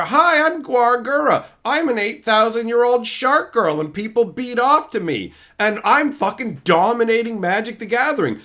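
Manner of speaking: mock shark girl VTuber. Mocking a VTuber who beats Magic, high smug voice. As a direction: play a smug VTuber gloating.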